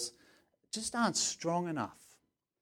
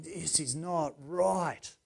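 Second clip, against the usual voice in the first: mild indignation; much slower than usual. Shown as a demonstration. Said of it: "that deep anger".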